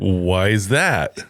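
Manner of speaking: slow, stretched retold question; drawn-out question. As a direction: stretch out each word warily. Retold question, drawn out after pause.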